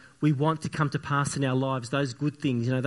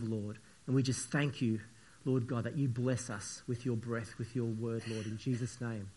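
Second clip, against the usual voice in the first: prayer. Acted. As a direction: pray it out, then let it sink to a hush. Opens service with prayer.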